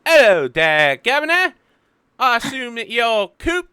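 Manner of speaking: put-on high, loud little-girl voice; precocious girl. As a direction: chirp it like a cheeky seven-year-old. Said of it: "and is like".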